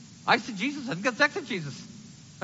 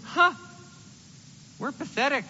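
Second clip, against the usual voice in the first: higher whiny lament building to a shrill wail; despairing people; 7 semitones higher, 5 dB louder than usual. Retold or imitated. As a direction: moan it, rising into a loud, high wail. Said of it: "they're going".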